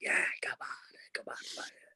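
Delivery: soft, whispered shouting. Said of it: "but, like, in a whisper".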